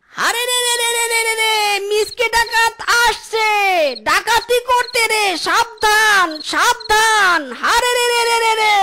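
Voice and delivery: chanted bandit war cry, hammed up; mock war cry. Boss announcing the raid to everyone, hammed-up war cry. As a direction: bellow it like a bandit raiding a village. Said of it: "চিৎকার করছেন কেন?".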